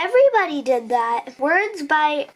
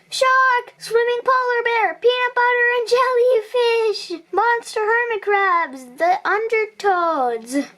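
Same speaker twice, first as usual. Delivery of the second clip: excited shouts; 7 semitones higher than usual. Acted. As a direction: call out each made-up danger in alarm. Kids imagining beach dangers in chorus.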